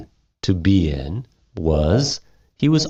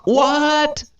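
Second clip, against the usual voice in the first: mock surprised. Teacher mocks students' confusion.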